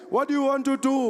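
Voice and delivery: chanting orator's call; Julius Malema. Retold or imitated. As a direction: rouse the crowd as a political leader. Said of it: "Every day he was there".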